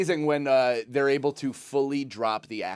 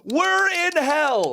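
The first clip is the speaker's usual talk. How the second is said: drawn-out despair; 11 semitones higher, much slower than usual. Acted. Repeating joke, drawn out.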